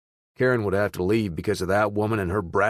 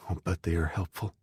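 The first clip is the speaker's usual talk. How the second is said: whispered; 2 semitones lower, 5 dB quieter than usual. A narrator's reading. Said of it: "I whispered".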